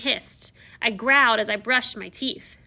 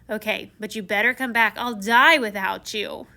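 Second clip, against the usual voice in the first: joking; 5 dB louder than usual. Retold or imitated. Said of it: "I joked".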